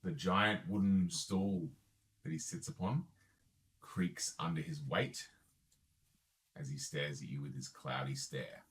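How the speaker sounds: game master narration. A narrator's reading. Game master describes scene.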